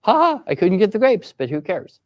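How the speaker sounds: carefree, clueless lilt starting high; totally clueless. Shown as a demonstration. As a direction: shrug it off without a clue. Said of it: "with a totally clueless voice".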